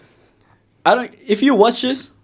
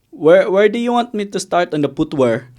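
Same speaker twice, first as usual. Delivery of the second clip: imitated Filipino accent. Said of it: "he said".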